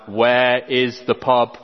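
slow, over-careful tourist voice. Retold or imitated. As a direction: spell it out slowly to a foreigner. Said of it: "They raise their voice louder and loud".

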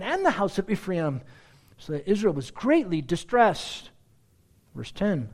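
solemn scripture reading. Acted. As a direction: read the passage with weight. Reads Judges passage aloud.

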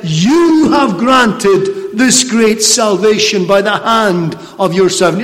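slow, reverent thanks to the Lord; grateful prayer. Retold or imitated. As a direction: give God the credit, slowly and humbly. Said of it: "called upon the Lord and said".

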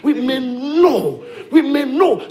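laughing repeat. Shown as a demonstration. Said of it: "repeated with a laugh".

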